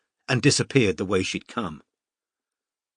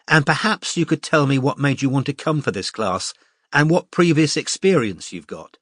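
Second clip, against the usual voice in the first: a hint of a brisk, friendly art teacher, slightly higher; lightly voiced cheerful teacher; 4 semitones higher than usual. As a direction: address the class like a confident tutor. Mariam addresses the class.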